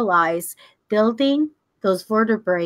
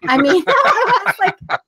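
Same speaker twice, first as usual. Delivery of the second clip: high, loosely spilling laughter through the words; real laughing; 11 semitones higher, 4 dB louder than usual. Real, not acted. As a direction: crack up mid-sentence. Cracks up over the memory.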